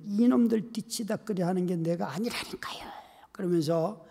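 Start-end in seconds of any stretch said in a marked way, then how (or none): 0.0-2.9 muttering in a fed-up whisper; whispered angry grumble. Retold or imitated. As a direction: grumble under the breath while cleaning. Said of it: "한참을 화를 내면". (숨죽여 투덜대는 화난 속삭임)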